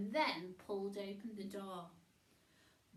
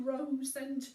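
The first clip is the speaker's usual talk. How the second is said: louder, dismissive cut-in; snort; 3 semitones higher, 8 dB louder than usual. Acted. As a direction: snort it back with scorn. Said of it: "snorted Billy".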